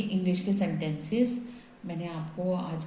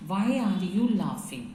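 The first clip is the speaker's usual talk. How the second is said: slow dictation; much slower than usual. Shown as a demonstration. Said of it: "कैसे हम English में बनाएंगे?".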